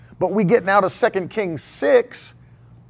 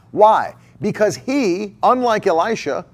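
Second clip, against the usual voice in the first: normal talking voice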